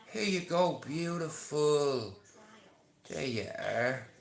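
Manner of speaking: slow, tender offering; gentle coaxing. Shown as a demonstration. Man offering a horse an apple, slow tender coax. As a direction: hold it out to her gently. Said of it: "I go up to you and I say".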